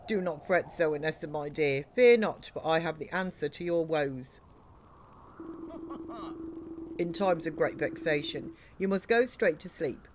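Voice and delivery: pompous old king, lightly voiced; jolly king voice. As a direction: play a cheerful, doting king. Voicing the king character.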